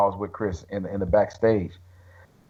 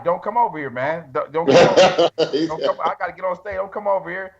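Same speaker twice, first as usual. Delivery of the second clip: laughing plea; 4 semitones higher than usual. Retold or imitated. Tearing up as Chris approaches.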